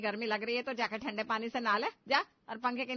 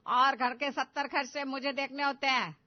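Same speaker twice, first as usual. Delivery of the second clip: stern retort; 7 dB louder than usual. Acted. Mother-in-law defends her spending.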